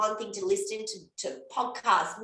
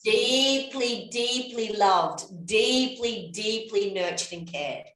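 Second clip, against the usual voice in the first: reassuring. Real, not acted. Reassuring the listeners.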